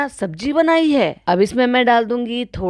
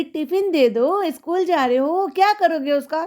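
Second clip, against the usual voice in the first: slow, high put-on baby-talk voice; mocking madam; 6 semitones higher than usual. Vlogger imitating madam questioning her son, slow high mimicry. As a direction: drag it out high like a silly mother. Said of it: "कह रही".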